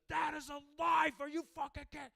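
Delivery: high, very loud outraged shout; mock outrage. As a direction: yell it in hammed-up moral fury. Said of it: "they would be like".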